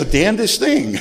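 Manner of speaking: high, loud joking curse at the bed; mock annoyance. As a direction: curse the waterbed with a laugh. Grumbling at wet bed alone.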